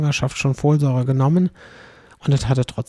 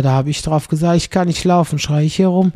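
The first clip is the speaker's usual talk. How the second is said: louder, triumphant punchline delivery; 4 dB louder than usual. Retold or imitated. Son delivering the joke's punchline to his mother, loud. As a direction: hit the punchline hard.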